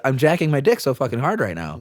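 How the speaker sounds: flat, no emotion at all; deadpan. Retold or imitated. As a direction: say it totally straight-faced. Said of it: "if you say it deadpan like that".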